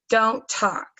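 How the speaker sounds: brisk command. Shown as a demonstration. Teacher demonstrating a command to a student. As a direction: order it, short and firm. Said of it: "The command would be".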